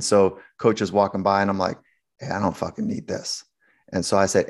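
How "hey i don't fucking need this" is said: hushed, breathless private aside; whispered thought. Retold or imitated. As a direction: whisper it under your breath. Inner thought as coach passes.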